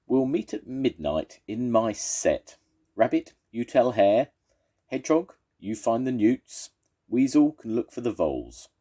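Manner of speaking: bossy badger. Badger giving orders.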